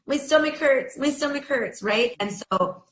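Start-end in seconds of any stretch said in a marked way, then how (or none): 0.1-1.8 put-on high, plaintive child voice; child whimpering a complaint; whiny child.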